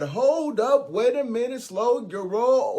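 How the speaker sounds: high-pitched, punchy interjection; goat brother butting in. Acted. Goat brother halts the troll to defend his side, butting in. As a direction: cut in high and drag out "roll".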